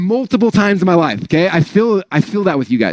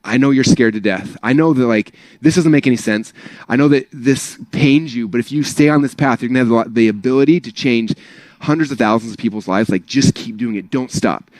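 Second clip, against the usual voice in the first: reassuring past self; 5 semitones lower than usual. Retold or imitated. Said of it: "go back to that dude".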